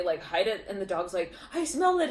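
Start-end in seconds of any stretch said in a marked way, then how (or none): 1.5-2.1 high, loud eager dog voice; excited dog. Acted. Dog hunting a hidden cookie, excited dog voice. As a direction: pipe up as a pet on a scent. Voicing a dog sniffing a treat.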